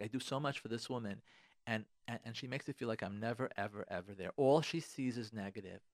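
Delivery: a soft, deflated mutter of a wronged husband; hurt husband's complaint. Retold or imitated. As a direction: say it low and quietly, half to yourself.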